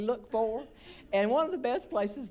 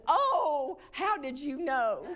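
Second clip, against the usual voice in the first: playing along; 5 semitones higher, much slower than usual. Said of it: "but I played along".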